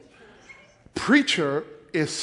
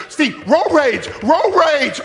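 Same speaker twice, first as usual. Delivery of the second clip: louder, higher urgent warning; wife pleading from the car, loud and urgent; alarmed wife; 8 semitones higher, 6 dB louder, slower than usual. Retold or imitated. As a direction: plead with him to stop. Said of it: "she's like".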